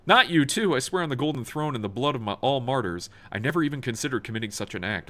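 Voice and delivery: high, pleading protest of innocence; pleading governor. Acted. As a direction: beg them to believe you.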